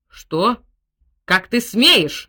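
loud, slow furious shout; shouting general. A narrator's reading. General yells at the butler who interrupts, furious shout. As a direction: bellow at the servant. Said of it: "закричал генерал".

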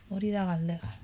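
put-on Basque line in a French accent, "galdera" said with a throaty French r so it sounds like galdega. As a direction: say "galdera" with a guttural French r, soft and low. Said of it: "lo ha dicho con acento francés".

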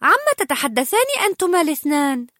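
Anna prying with bright curiosity; curious. Acted. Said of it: "فسألت آنا بفضول".

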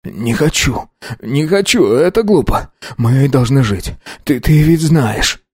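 put-on a scared boy begging not to die; rising fearful plea; desperate pleading. A narrator's reading.

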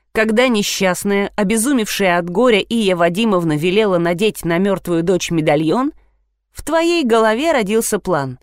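usual speaking voice

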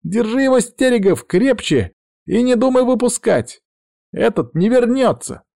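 very high-pitched, urgent cry; urgent exclamation. A narrator's reading. Witch urging the man to hold the cat, crying out high. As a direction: call out shrilly in alarm. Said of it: "тут же воскликнула".

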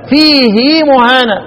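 "فيه مهانة" with the ha's kasra drawn into a long i, "فيهي"; slow, the long vowel given its full due. Shown as a demonstration. Teacher shows the full reading to students. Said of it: "وفاء".

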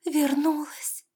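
high, slow whispered wonder; mother whispering with joy; awed whisper. A narrator's reading. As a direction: breathe it out in disbelief. Mother overwhelmed by daughter's return.

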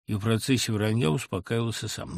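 ordinary delivery, nothing marked

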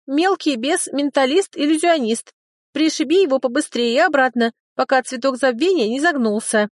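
high, hiccuping tiny dragon; squeaky, tipsy little creature. Acted. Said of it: "икнув, пробормотал дракончик". (высокий голосок дракончика)

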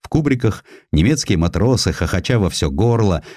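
plain reading voice

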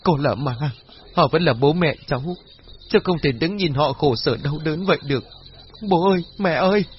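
choked, tearful plea; sobbing. Acted. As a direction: sob through the words. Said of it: "nói trong tiếng nấc nghẹn ngào".

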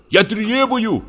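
very high, shaking cry; trembling shout. A narrator's reading. Doctor shouting at the door, trembling. Continued outcry.

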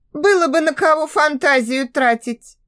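a hint of a scornful female voice; lightly voiced girl, dismissive; snorting, scornful girl. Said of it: "фыркнула она". (чуть фыркая, пренебрежительно)

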